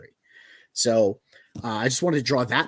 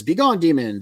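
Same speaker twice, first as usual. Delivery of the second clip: commanding shout; 5 semitones higher, 6 dB louder than usual. Retold or imitated. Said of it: "Isham says".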